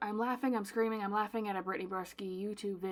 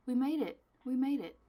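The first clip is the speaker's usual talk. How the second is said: loud, higher little victory cheer; relieved cheer; 5 semitones higher, 9 dB louder than usual. Real, not acted. Host cheering as labels finally work, relieved cheer. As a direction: celebrate finally getting through.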